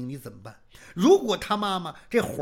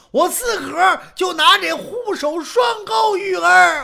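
desperate crying shout; 11 semitones higher, 11 dB louder, slower than usual. Acted. Threatens suicide with hooked swords.

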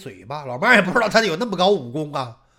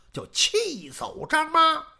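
ordinary delivery, nothing marked

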